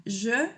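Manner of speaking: slow "je" with the zh of French, no y sound. Shown as a demonstration. Teacher showing students how to say "je". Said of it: "no se pronuncia como ye o como ye, sino es je".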